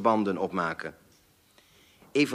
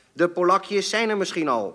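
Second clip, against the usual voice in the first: waarschuwend; 8 semitones higher than usual. A narrator's reading. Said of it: "voegde hij hier waarschuwend aan toe".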